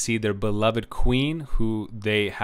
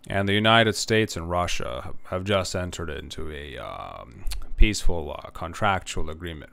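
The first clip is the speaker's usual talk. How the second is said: flat, lower monotone news anchor voice; monotone newsreader; 5 semitones lower than usual. Retold or imitated. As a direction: read it like a bored anchor. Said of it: "with a very monotone voice".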